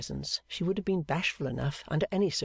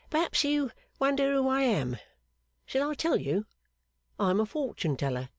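higher, teasing and secretive; mysterious fortune-teller; 10 semitones higher than usual. Acted. Clerk posing as fortune-teller to the seamstress, teasing. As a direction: tease her with a mystery. Pancks announces himself.

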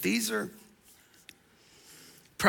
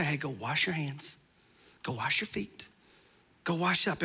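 softer, offhand wash-up reminder; casual parent; 5 semitones lower, 8 dB quieter than usual. Retold or imitated. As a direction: toss it off lightly to the kids. Parent, mild instruction.

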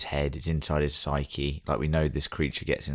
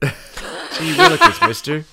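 put-on very high, slow gee-whiz kid; wholesome 1950s kid; 10 dB louder, slower than usual. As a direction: stretch it out like an old-timey innocent boy. Mocking naive kid.

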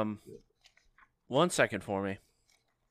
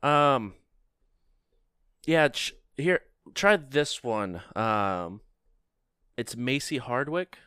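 receptionist voice; 3 semitones higher, slower than usual. Acted.

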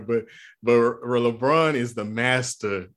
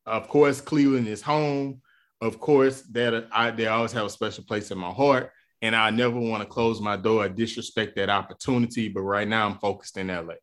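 LeBron answer; 2 semitones lower than usual. Pretend. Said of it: "he could have said".

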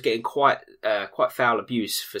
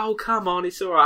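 put-on drunk Sophie; 9 semitones higher than usual. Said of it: "And she was like".

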